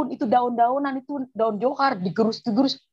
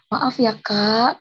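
slow, drawn-out polite apology; apologetic refusal; 2 semitones lower, much slower than usual. Retold or imitated. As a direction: stretch it out to let her down gently. Politely refusing the offered oil.

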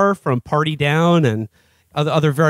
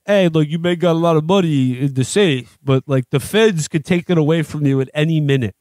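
Stallone; 2 semitones lower than usual. Acted. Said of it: "the way he explains it".

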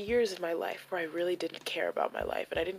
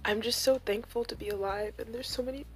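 high, tight sobbing voice, much higher and softer; crying; 8 semitones higher, 4 dB quieter than usual. Real, not acted. Recovering vlogger thanking life to her viewers, sobbing. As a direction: voice breaking into tears of gratitude. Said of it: "Sorry for crying".

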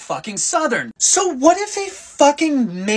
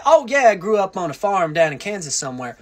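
put-on somewhat Southern accent. Clark Kent telling coworkers about the farm, mild Southern accent. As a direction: play a folksy farm boy, subtly Southern. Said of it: "somewhat Southern accent and say".

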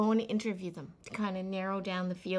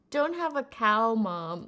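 Bart Simpson; 6 dB louder than usual. Retold or imitated. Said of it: "You remember The Simpsons?".

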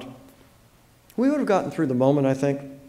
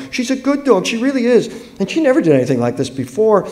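put-on high, anxious child's plea, building louder; pleading young girl; 6 semitones higher, 5 dB louder than usual. A narrator's reading. Girl begging them not to report her dog, pleading and building. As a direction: start small, then beg higher and more insistently.

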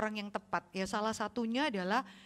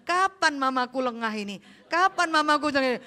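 put-on sneaky child; 3 semitones higher, 7 dB louder than usual.

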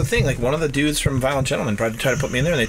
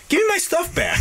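mock angry demand. Retelling the border stop to the officer, a mock angry shout. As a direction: play it as a hammed-up furious shout. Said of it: "now I'm, like, mad".

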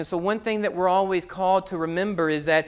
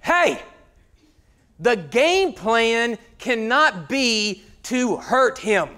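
father calling out; slower than usual. Retold or imitated. Father scolding players at son's game, slow stern call. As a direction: scold the field slowly. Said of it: "his father goes".

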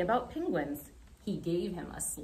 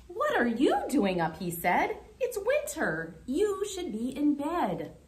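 higher, louder jolly Santa; a hint of Santa; 8 semitones higher, 3 dB louder than usual. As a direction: gently scold him like Santa. Santa scolds Groundhog kindly.

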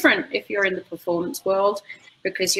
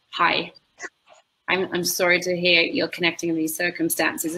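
gently sympathetic, a touch softer; a tad softer. Shown as a demonstration. Communicator greeting a grieving owner, a tad softer. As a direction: ease in kindly, a little softer. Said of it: "And it's a tad softer".

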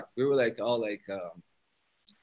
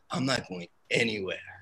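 calm and quiet; 4 semitones lower, 6 dB quieter than usual. Retold or imitated. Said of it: "very calmly".

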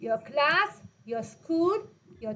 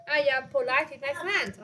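slow dictation; much slower than usual. Shown as a demonstration. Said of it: "teacher models sentence slowly".

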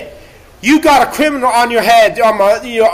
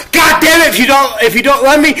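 angry shout; 3 semitones higher than usual. Real, not acted. Ranting at society who won't love him, angry shout. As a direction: bark it out in frustration.

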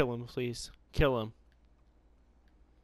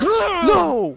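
sharp high cry of no; shout; 14 semitones higher, 9 dB louder than usual. Real, not acted. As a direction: yell it as you die. Sudden death outburst.

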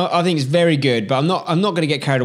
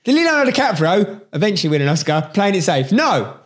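fired-up pep talk; 7 semitones higher than usual. Real, not acted. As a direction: push him to take risks. Pep talk about Oscars.

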